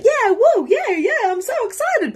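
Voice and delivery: very high, loud mock-excited squeal; fake excitement. How we all pretend to be excited, squealing high. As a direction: ham up fake enthusiasm. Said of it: "we're like".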